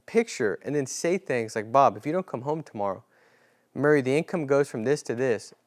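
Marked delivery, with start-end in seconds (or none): 1.7-5.5 sincere ask. Shown as a demonstration. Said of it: "you have to ask with sincerity".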